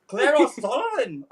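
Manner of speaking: lightly attempted Irish brogue; Irish accent. Performer trying to regain the accent, mild mock Irish. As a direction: hunt for an Irish accent on the name. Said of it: "I had an accent".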